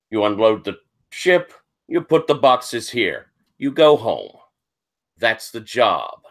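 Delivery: a touch of the curt foreman; measured orders, pausing between each; lightly voiced dock boss. Dock boss offering work to Irish labourers, lightly curt and businesslike.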